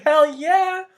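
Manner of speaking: answering people who say he's always happy, with a loud cheer; enthusiastic agreement. Retold or imitated. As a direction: throw it out with full gusto. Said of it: "I was like".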